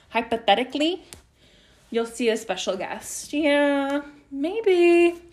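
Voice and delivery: sing-song teasing tone. Real, not acted. Teasing a special guest.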